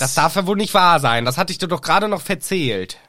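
hammed-up indignation; indignant scolding. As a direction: scold like an appalled teacher. Teacher scolding the pupil.

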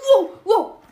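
loud laughing wow. Real, not acted. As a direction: laugh it out in relief. Narrow escape, laughing.

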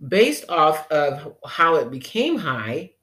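ordinary talk, nothing marked

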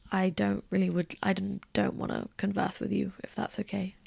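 soft, mildly polite brush-off, fading away; polite refusal. Retold or imitated. Turning down a man at the club, softly polite. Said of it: "trying to politely be like".

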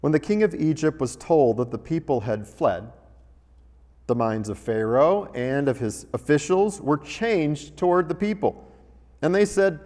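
measured, solemn reading of Scripture. Acted. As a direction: read the passage aloud to the congregation. Reads Scripture aloud from Exodus.

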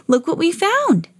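high sweet doll voice. A narrator's reading. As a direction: voice Bitty Baby high and small. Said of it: "said Bitty Baby".

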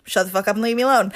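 quick mock brush-off; joking dismissal. Taking back the apology to her roommate, fast joking dismissal. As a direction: toss it out fast as a tease. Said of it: "just kidding".

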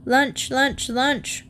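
grunting pig. Acted. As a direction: grunt it like a sow. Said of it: "grunted Fanny".

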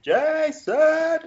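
high, laughing shout of Jason; laughing mock call. Friends joking about the game, laughing high calls. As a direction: call the name while cracking up. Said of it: "shout Jason for ages".

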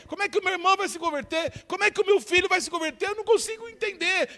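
high pleading father, pressing and urgent; desperate father. Acted. Father begging Jesus to help his weak faith, pleading high. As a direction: beg like a father losing his son.

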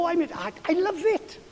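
high-pitched, tripping over the words; all excited. Retold or imitated. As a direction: act out gushing enthusiasm. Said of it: "I get all excited".

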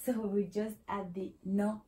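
usual speaking voice

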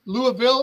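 Louisville said as LOO-uh-vil; three-syllable Louisville. Shown as a demonstration. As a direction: say Louisville with an uh in the middle. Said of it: "How do you say it?".

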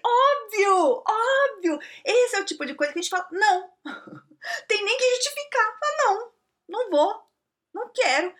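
exasperated, laughing insistence; emphatic outburst. Retold or imitated. Telling her friend to refuse, emphatic high outburst. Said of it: "Eu falei".

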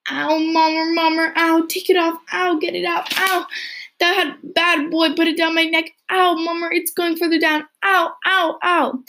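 put-on high wailing little girl crying for her mother; hysterical child shrieking. Little girl to her mother in church, high hysterical wail. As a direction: squeal it out like a frantic child with a bug down her dress. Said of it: "carried the hysterical, writhing Loretta".

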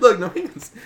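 put-on high, loud little-kid call; kid calling dad. Five-year-old calling to her dad.

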